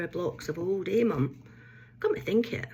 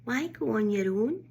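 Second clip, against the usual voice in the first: higher, swooping put-on questioning voice; mock interrogation; 4 semitones higher than usual. Mum questioning her solo trip, put-on interrogation voice. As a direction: imitate a prying relative, tune rising at the end. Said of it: "what was coming next during my interrogation".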